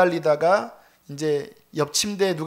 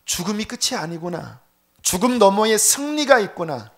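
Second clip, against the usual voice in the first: triumphant proclamation; 4 semitones higher, 6 dB louder than usual. Real, not acted. Sermon climax proclamation.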